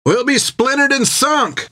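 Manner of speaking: high frightened wail of sailors; high wailing cry of doom; panicked cry. A narrator's reading. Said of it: "they cried".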